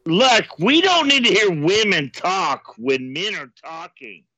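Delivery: macho jerk voice. Acted. Macho caller bit.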